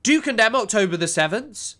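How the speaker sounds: mock-outraged interviewer, pitched high; high-pitched mock indignation; Piers Morgan. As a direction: imitate an indignant host, high swooping pitch. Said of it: "Piers would have been like".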